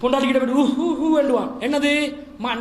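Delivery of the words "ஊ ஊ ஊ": mock crying. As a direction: imitate a man putting on tears. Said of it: "ஏதாவது காரியத்தை சாதிக்க தான் அழுவான்".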